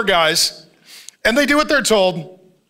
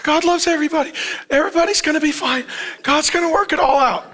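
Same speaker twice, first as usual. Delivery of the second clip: higher, imitating blithe optimism; mock optimistic; 4 semitones higher, faster than usual. Preacher imitating overly optimistic listeners, mock optimistic. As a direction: parody someone sure all will be fine. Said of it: "some of you are very optimistic".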